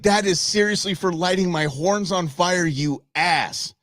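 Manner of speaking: mock indignant bull voice; voicing the bull. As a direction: give the bull a huffy, fed-up voice. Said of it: "Now he's like".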